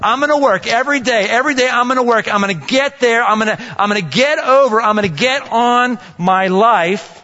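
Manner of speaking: mild upbeat ant pep talk; the ant's voice. Acted. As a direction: play the determined little ant, lifted a bit. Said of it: "The ant says".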